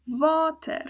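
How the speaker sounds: "water" wieder als "vater", lauter und höher; "water" mit V vorne und langem A betont; Dutch water again. Shown as a demonstration. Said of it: "the word underneath it".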